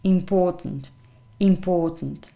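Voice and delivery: important with a long O in POR; careful model of important, long middle vowel; long O sound. Shown as a demonstration. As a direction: stretch the O in important. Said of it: "with a long O sound here".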